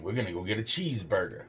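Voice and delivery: fast, coaxing, sing-song promise; coaxing kidnapper voice. Retold or imitated. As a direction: lure a kid with a treat. Kidnapper's repeated line imitated.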